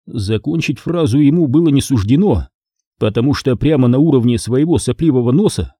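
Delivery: ordinary delivery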